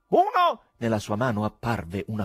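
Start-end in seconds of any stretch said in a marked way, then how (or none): 0.1-0.6 high, loud stage count; shouted count. A narrator's reading. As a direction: call it out to the hall. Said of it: "Gridò".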